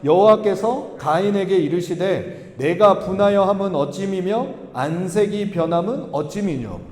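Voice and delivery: slow, measured congregational reading; deliberate, evenly paced recitation; scripture reading. Acted. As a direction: read the verse out slowly for all to follow.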